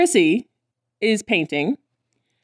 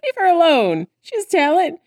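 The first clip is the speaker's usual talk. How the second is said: protective scold; 9 semitones higher than usual. Retold or imitated. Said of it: "Or maybe it's Rhea".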